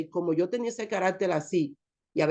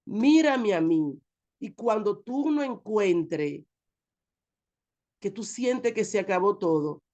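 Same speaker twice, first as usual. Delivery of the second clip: voice of God; slower than usual. Retold or imitated. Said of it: "Me llama por mi nombre".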